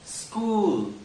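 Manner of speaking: स्कूल begun straight on s, no इ; right school. Shown as a demonstration. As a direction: clean cluster. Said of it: "स्कूल नहीं होता है". (सही स्कूल)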